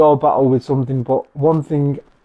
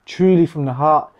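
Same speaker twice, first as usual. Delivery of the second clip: prayerful and sincere. Real, not acted. Leading a prayer for peace.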